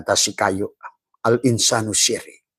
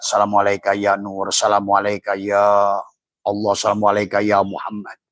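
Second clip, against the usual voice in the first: devotional salutations. Acted. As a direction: murmur the salutations like a prayer. Guided salutation chant to inner self.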